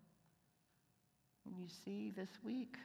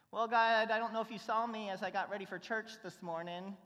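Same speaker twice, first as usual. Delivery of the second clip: louder, higher objection to God; pleading protest; 5 semitones higher, 5 dB louder than usual. Pretend. Believer protesting to God, louder and higher. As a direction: protest your unworthiness.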